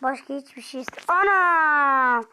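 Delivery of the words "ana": startled outburst. Real, not acted. Cut off by death.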